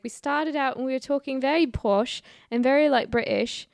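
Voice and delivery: posh British accent, put on; lightly mock a posh British voice. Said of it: "I'm stuck in British".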